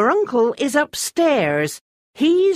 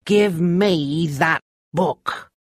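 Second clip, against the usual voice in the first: very slow, higher, menacing demand; cold command; 9 semitones higher, much slower than usual. A narrator's reading. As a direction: order it icily, stretching the words. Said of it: "a cold voice".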